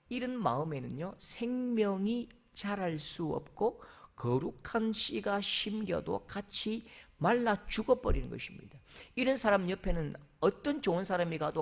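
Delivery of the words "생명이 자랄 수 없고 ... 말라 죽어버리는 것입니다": ordinary talk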